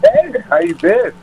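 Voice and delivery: squeaky high-pitched caller. Pretend. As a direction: play a squeaky prank caller.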